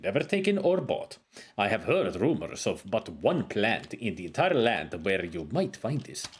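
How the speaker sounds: a hint of a wise old wizard reading his lines; scholarly sage, lightly put on; lightly voiced game sage. Voices game character dialogue.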